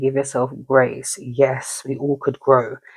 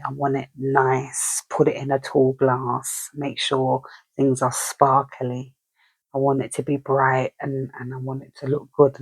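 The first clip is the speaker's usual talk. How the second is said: indulgent Taurus voice; 3 semitones lower, 3 dB quieter than usual. Retold or imitated. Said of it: "It's that kind of energy".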